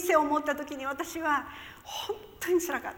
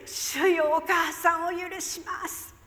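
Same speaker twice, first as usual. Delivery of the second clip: sudden cry; 4 semitones higher, slower than usual. Retold or imitated. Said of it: "いきなりです".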